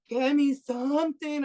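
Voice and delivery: strained slow imitation of a dry mouth; struggling to talk. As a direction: act out cotton mouth, slowly begging. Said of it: "I couldn't even talk".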